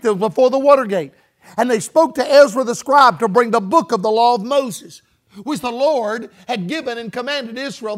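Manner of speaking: emphatic, carrying Bible reading; scripture reading. Real, not acted. Preacher reading about Ezra to church, emphatic scripture reading. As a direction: read the verse out to the congregation. Reads scripture aloud to congregation.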